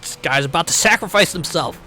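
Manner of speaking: mock hesitant character; imagined speech. New member before the sacrifice, mock hesitant. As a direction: fumble for something nice to say. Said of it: "imagine her just going".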